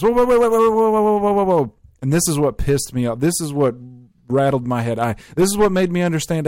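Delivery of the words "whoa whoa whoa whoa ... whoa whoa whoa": high, loud, rapid string of alarmed whoas; high flustered whoa-whoa-whoa. Retold or imitated. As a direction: stop him in a panic, pitch way up. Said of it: "she immediately just goes".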